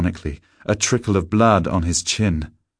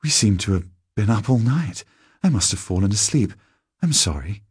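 lightly voiced woman just woken; a touch higher, mildly flustered; puzzled, understated apology; apologetic woman; 4 semitones higher than usual.

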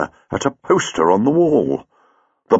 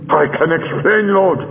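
pleading; 6 semitones higher than usual. Acted. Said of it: "pleaded Chang".

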